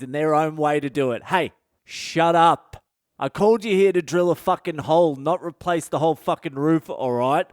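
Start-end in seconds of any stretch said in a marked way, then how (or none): 1.2-2.8 slow, drawn-out "shut up"; acted blunt put-down; bossy telling-off. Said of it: "That's how you gotta talk to tradies". 3.2-7.5 acted blunt scolding of a tradie; firm client laying down the law; bossy telling-off. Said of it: "That's how you gotta talk to tradies".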